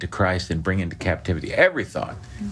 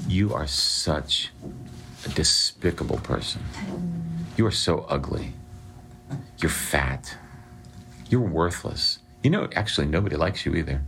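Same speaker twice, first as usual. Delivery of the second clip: mock devil's taunts; 4 dB quieter than usual. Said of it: "the devil outside saying".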